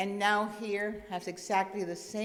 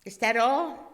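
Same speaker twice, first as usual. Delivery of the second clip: frustrated student; 3 dB louder than usual. Acted. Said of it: "getting a little frustrated".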